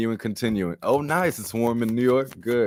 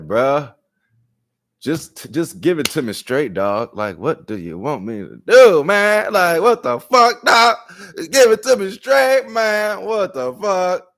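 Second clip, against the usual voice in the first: loud, much higher, yelling frustration; exasperated rant; 6 semitones higher, 5 dB louder than usual. Retold or imitated. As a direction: shout it like a fed-up friend. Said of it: "we're like".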